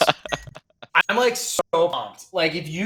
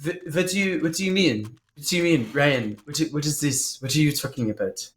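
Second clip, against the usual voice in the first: put-on French accent. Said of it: "He is extremely stereotypical French".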